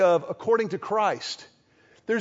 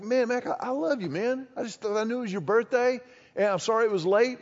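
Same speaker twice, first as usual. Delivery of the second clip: tender friend; 3 dB quieter than usual. Retold or imitated. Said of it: "He's like".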